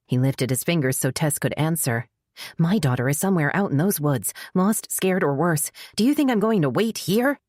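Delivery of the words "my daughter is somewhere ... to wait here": distressed. Acted. Worried mother refuses to wait.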